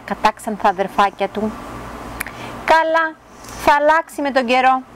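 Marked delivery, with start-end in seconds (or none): 2.6-4.8 lightly voiced hopeful mother duck, higher; a hint of a mother reassuring herself; mother duck's thought. A narrator's reading. Mother duck reassuring herself about the dark duckling, lightly voiced. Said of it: "σκέφτηκε η μαμά Πάπια".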